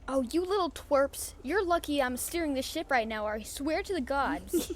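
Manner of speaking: fake-growl at the little twerps; mock threat. Captain teases the cabin kids, mock threatening with a laugh.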